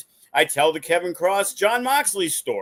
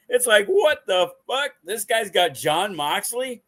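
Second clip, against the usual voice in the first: surprise; 5 semitones higher than usual. Retold or imitated. Seeing Moxley's wife backstage, high stunned disbelief. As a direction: blurt it out stunned.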